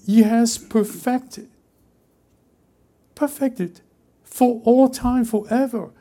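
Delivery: slow, high, ringing proclamation; rising fervent declaration; preaching climax. Real, not acted. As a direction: lift it like a trumpet call.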